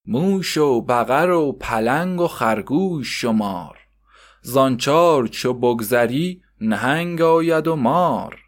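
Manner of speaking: slow, sing-song recitation of verse; slow rhythmic poem reading. Acted. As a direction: chant the rhyme like a school lesson. Recites zodiac animal verse.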